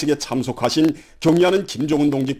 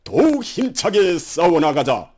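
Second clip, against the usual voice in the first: rousing slogan; 4 semitones higher than usual. Acted. Closing slogan of broadcast.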